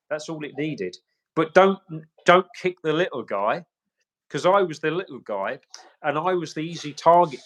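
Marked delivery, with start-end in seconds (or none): 1.3-7.4 impassioned plea. Real, not acted. Impassioned plea about blame.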